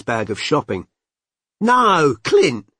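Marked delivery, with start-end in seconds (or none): 1.6-2.7 sharp, higher and louder scold; sharply. A narrator's reading. Mandy scolds her son for rummaging, sharp. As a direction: snap a warning at the child. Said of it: "said Mandy sharply".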